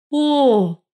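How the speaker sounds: протяжное разочарованное «О!», выше голосом; протяни «о» с разочарованием; разочарованно. A narrator's reading. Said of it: "разочарованно протянула Коваль". (разочарованно протянутое «О»)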